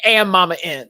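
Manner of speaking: high, loud laughing shriek; shrieking laugh into the name; squealing laugh. Real, not acted. Burst of laughter.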